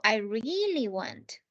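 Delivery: "really" drawn out slowly to emphasize the verb; stress on REALLY. Shown as a demonstration. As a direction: stretch "really" before "want". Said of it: "emphasizing the action, in this case".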